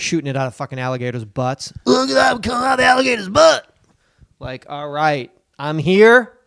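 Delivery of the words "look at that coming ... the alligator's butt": high, fast amazed gawking at fireworks; amazed onlooker. Acted. Podcast host mimics a tourist watching fireworks, amazed and high. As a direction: gasp it out like a wowed tourist.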